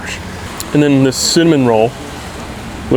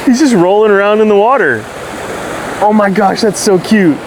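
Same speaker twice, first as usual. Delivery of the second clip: excited; 8 semitones higher than usual. Real, not acted. Watching a seal play.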